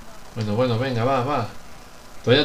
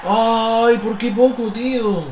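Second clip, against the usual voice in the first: near-miss cry; 7 semitones higher, 3 dB louder, slower than usual. Real, not acted.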